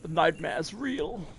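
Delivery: slow robot monotone; emotionless robot voice. Pretend. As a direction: drain every word of feeling, slowly. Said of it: "I had to delete all emotion".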